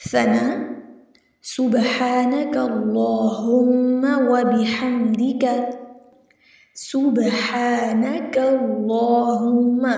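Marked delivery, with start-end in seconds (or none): 1.4-9.9 اللہم with a thick, full ل; measured recitation with a thick ل in اللہم; heavy Allahumma. Shown as a demonstration. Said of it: "لفظ اللہم کو ہم موٹا پڑھیں گے".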